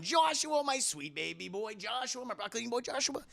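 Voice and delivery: high cooing pet names. Real, not acted. Streamer coos at chatter Joshua, doting baby talk.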